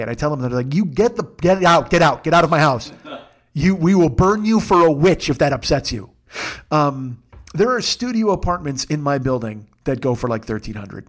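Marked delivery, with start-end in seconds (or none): 0.7-6.1 loud, hammed-up banishment; angry mob shouting, played for laughs; mock outrage. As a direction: throw him out in mock fury. Friends' outrage at his low rent.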